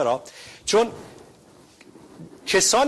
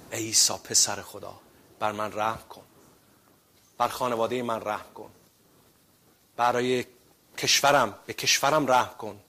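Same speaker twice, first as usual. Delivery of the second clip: humble prayer. Acted. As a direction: plead gently, head bowed. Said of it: "بیایم این دعای ما باشه".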